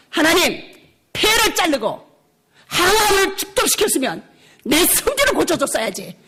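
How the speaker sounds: mock angry outburst, rising toward the end; retold shouting at God. Preacher retelling how she yelled at God, mock angry. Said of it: "소리를 지르면서".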